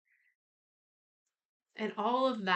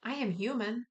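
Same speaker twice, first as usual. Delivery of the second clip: sincere affirmation; 2 semitones higher than usual. Shown as a demonstration. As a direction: clear and sincere. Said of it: "listen to the voice of truth".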